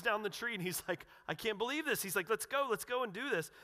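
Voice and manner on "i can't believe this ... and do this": excited Zacchaeus. Retold or imitated. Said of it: "Zacchaeus is excited".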